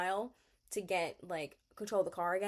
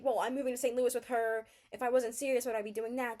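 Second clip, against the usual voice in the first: higher, louder retold protest; defensive quoted comeback, pitched up; mock deflecting; 5 semitones higher, 5 dB louder than usual. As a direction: imitate someone brushing off blame. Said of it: "He's just deflecting".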